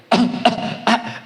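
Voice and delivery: small soft fake coughs; little copycat coughs; imitated baby cough. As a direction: mimic a baby copying dad's cough. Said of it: "começou a imitar o pai de novo".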